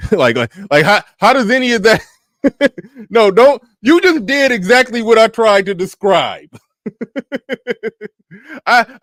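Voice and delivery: high-pitched incredulous protest breaking into laughter; laughing disbelief. Real, not acted. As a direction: protest loudly and high, cracking up at the absurdity. Reactor laughing incredulously at the clip.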